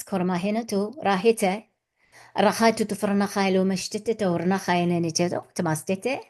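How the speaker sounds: even, rhythmic chant of invented syllables; channelled light language. Acted. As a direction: intone it like a channelled blessing.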